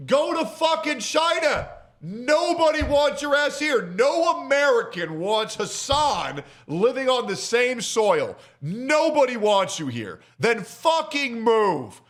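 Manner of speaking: high furious yell. Real, not acted. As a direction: scream it at him in disbelief. Furious rant at Hassan.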